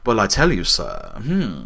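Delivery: lightly mocked English regional accent; a hint of hammed-up English accent; Napoleon Bonaparte. Imitating the game's Napoleon addressing the player, mock English accent. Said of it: "Napoleon Bonaparte's there, and he's like".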